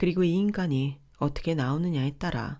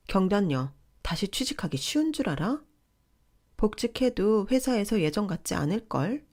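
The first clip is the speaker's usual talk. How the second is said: sister-in-law, raised pitch and bossy; pushy sister-in-law; 3 semitones higher than usual. Acted. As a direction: talk down to her like the older in-law. Narrator voices the sister-in-law.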